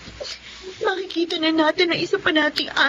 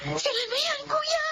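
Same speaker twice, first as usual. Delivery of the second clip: breathless awed whisper; tearful whispered gasp; excited whisper; 11 semitones higher, 7 dB quieter than usual. Acted. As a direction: whisper it, overwhelmed with emotion. Relatives arrive at last.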